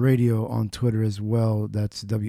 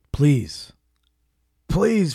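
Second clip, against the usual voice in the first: whispered plea; 2 semitones higher than usual. Real, not acted. Pleading whisper to vote.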